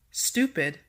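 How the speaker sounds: "stupid" with the first syllable stressed, STU-pid. Shown as a demonstration. Teacher giving quiz answer number five, STU stressed in "stupid". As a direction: lean on STU, let the end of "stupid" fall. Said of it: "the S T U is stressed".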